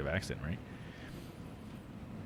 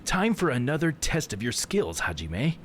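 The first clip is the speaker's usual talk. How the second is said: higher-pitched southern game character; southern accent; 5 semitones higher than usual. Acted. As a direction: put on a hammed-up Texas accent. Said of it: "I've been giving such a southern accent".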